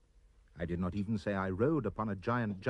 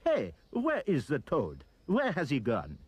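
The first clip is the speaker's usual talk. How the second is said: puzzled cry; 5 semitones higher, 3 dB louder than usual. A narrator's reading. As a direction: shout out, searching for the vanished toad.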